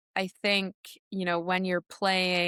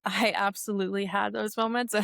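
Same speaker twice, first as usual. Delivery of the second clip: amused, with a chuckle spilling out after; laughing; 3 semitones higher than usual. Real, not acted. Athlete admitting to interviewer she had doubts, laughing. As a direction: let a laugh escape at the memory. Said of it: "I'm laughing because it's".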